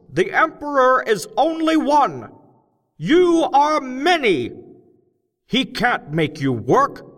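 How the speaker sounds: loud, high, slow speechmaker shouting to a cavern crowd; loud, high, slow rally speech; rousing oration. A narrator's reading. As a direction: whip up the crowd of gnomes, big and deliberate. Crockett's strike speech.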